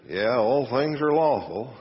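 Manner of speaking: slow, drawn-out mock agreement; sarcastic concession. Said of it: "I know he said it very sarcastically".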